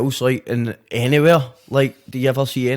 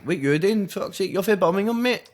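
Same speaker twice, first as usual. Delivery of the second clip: higher-pitched incredulous challenge; mock disbelief; 5 semitones higher, 3 dB quieter than usual. Scot reacting to an English rapper faking Scottish, mock disbelief. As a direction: call out a faker in disbelief. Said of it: "I'd be like".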